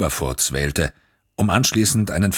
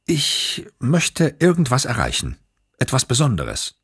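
wistful reporter voice; 9 semitones higher than usual. A narrator's reading. Glick voiced, yearning.

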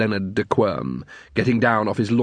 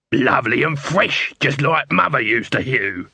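salesman voice. Acted. Dibbler's sales pitch.

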